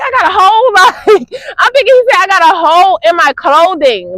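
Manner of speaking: high-pitched, incredulous question with a laugh; baffled disbelief. Retold or imitated. Woman retells misunderstanding an older man's remark, high and baffled. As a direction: replay your confusion, voice jumping up.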